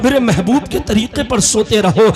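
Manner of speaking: projected, rhythmic sermon delivery; preaching. Acted. Preacher challenging listeners on following the prophet's way, insistent preaching. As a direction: press the listeners with insistent questions.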